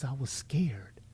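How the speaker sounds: hushed retelling of her reason; mock-timid whisper; whispered quote. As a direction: breathe it out like a frightened admission. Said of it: "And she says".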